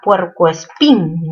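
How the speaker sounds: "puercoespín" drawn out slowly, landing on "pín"; stress on final syllable. Shown as a demonstration. Teacher showing students where the force falls, slow stressed "puercoespín". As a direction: sound out "puercoespín" in slow pieces, weight on "pín". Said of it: "¿Mayor fuerza dónde?".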